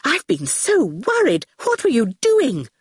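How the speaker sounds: worried scolding. Acted. Catriona meets Howard and Awful, worried. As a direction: fret at children who are safe at last.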